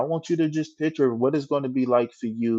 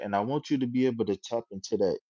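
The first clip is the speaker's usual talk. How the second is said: ordinary delivery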